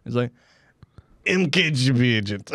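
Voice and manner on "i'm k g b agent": secretive whisper of a spy; whispered confession. Pretend. Spy confides at embassy door.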